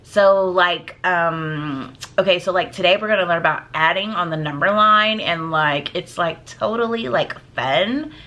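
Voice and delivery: lightly voiced high schooler, filler-laden; a hint of teen-speak with a rising finish. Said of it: "talk like my high school voice".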